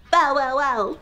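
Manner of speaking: playful bow-wow-wow; punchy run of mock barks; dog bark. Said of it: "Can you make dog noises with me?".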